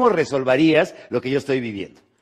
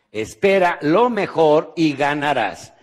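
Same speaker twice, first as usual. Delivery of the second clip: slow, emphatic; 3 dB louder, slower than usual. Shown as a demonstration. Seminar speaker giving the audience homework, slow and emphatic. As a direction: say "Espera lo mejor y ganarás" slowly, leaning on "lo". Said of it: "muy importante".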